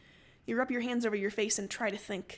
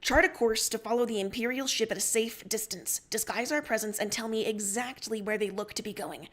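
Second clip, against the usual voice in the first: firm, raised captain's orders; command; 4 dB louder than usual. Acted. Captain orders crew and Tavros, firm command. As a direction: take charge of the bridge. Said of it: "you order".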